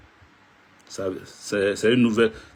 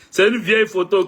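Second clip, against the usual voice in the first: laughing; 5 semitones higher, 3 dB louder than usual. Real, not acted. Laughing about old photo.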